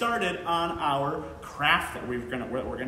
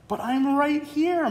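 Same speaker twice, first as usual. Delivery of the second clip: sighing mom; 9 semitones higher, slower than usual. Acted. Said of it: "Mom sighed".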